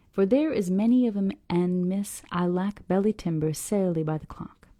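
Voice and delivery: put-on folksy old man in a Southern accent. Old man excuses himself to go home, Southern accent. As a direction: read the dialect with an improvised Southern accent. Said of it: "a southern accent".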